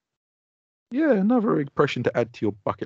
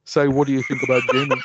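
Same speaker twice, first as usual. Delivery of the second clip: lightly voiced imitation of a wife; a hint of a mimicked woman; wife impression; 4 dB louder than usual. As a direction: mimic a friend's wife, a bit louder. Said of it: "That's what she sounds like".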